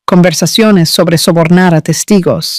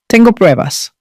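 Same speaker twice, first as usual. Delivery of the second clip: voice breaking; 4 semitones higher than usual. A narrator's reading. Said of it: "mi voz quebrándose".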